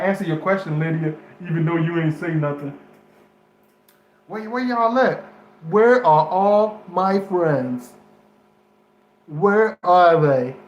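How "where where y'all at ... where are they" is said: loud, drawn-out call to the audience; slow, louder call asking where everyone is. Real, not acted. Vlogger calling out to his missing viewers, loud and slow.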